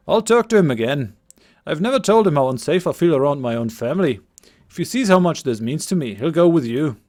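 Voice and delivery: put-on lightly overdone Scottish accent; a young villager's Scottish lilt. Game master voicing Cillian to the party, Scottish accent. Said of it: "my attempted Scottish accent".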